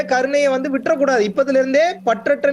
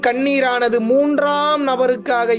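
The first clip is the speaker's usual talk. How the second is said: solemn recitation; slower than usual. Retold or imitated. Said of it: "சொல்றாங்க குருமார்கள்".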